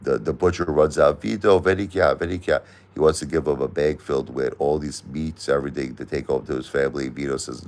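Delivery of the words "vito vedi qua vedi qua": slightly higher, lightly acted butcher's call. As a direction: call Vito over, acting the butcher lightly. Butcher runs out calling Vito.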